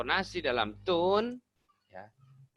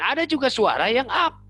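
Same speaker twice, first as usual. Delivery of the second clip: pitched well up and louder; high voice; 10 semitones higher, 7 dB louder than usual. Shown as a demonstration. Coach demonstrating the upper register to learners, high voice. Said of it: "atau tinggi".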